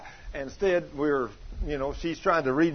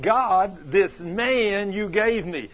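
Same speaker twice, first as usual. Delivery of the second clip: mock fussing; 2 semitones higher, much slower than usual. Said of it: "she's fussing now".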